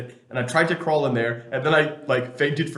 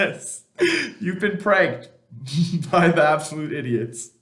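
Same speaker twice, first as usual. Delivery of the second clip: loud laughing reveal; prank reveal laughing; 4 semitones higher, 5 dB louder than usual. Acted. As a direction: crow it through laughter.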